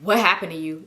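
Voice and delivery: low, unimpressed question; with attitude. Retold or imitated. Unimpressed girlfriend asking what happened, with attitude. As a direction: ask it coolly, dropping the pitch. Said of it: "I got a whole attitude".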